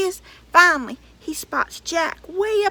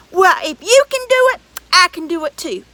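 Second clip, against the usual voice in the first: boasting giant; 3 semitones higher, 9 dB louder, faster than usual. Acted.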